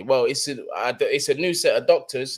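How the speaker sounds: ordinary talk, nothing marked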